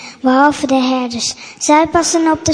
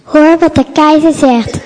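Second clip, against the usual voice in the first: louder herald's call; 5 dB louder than usual. Acted. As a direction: announce it loudly to the crowd. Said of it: "roept de soldaat".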